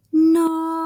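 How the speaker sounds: a sharp, high, loud cry of shock; alarmed cry. Acted. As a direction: yell it out in sudden alarm.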